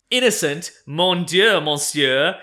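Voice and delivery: hammed-up French accent, loud; french chef. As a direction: shout it like an outraged Frenchman. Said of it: "Here's the twist".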